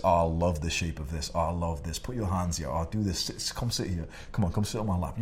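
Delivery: lightly voiced bedroom talk; sexy voice. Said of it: "talk in that fucking sexy voice".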